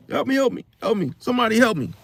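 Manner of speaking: repeated mock pleas, pitched a little up; mock pleading. Shopper fakes an emergency for bystanders, mild mock pleading. Continues faked breathing emergency.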